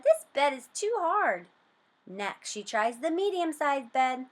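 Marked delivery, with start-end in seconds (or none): 0.0-1.5 higher, disgruntled little voice; complaining. A narrator's reading. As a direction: grumble that the bed is too hard. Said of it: "she said".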